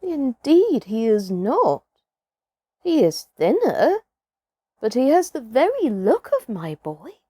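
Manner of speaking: peering closely, hopeful; lightly voiced village woman. Woman with copper rings speaks.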